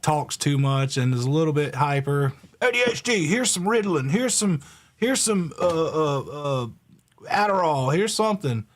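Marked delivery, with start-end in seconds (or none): 2.6-8.7 higher, breezy mock pill-pusher; mocking doctor. Mocking doctors who push pills on hyper kids, sarcastic higher voice. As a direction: hand out pills like candy, sarcastic.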